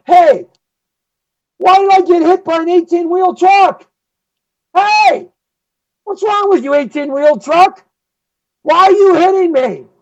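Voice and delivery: high, whiny voice of a clueless jaywalker; dumb pedestrian. Pretend. Clueless jaywalker whining at the truck that hit him, high and whiny. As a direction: squeal it like a dazed fool who just got hit.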